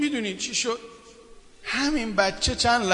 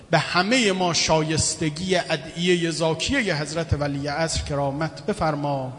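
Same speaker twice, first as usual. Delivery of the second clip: closing prayer. Acted. Closing supplication.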